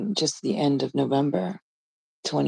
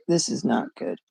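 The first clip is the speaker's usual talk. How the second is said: quiet dread; 3 semitones lower, 8 dB quieter than usual. Retold or imitated. Inner reaction to scam call.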